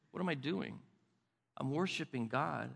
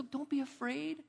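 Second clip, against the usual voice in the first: higher, softer, coaxing; soft reassurance; 8 semitones higher, 6 dB quieter than usual. Shown as a demonstration. Grandpa comforting a grandkid scared of the puppy, gently. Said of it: "What do I do?".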